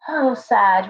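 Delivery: ordinary talk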